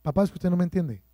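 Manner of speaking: put-on quick, mildly whiny teen complaining to parents; a hint of a sulky kid, rushed; mock teen complaint. Preacher mimicking teens to their parents, mild whine. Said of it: "Eso dicen los pelados".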